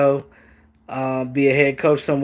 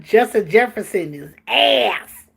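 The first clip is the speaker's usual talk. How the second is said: laughing through the quote; 4 semitones higher, slower than usual. Real, not acted. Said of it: "He's ass".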